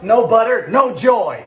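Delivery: usual speaking voice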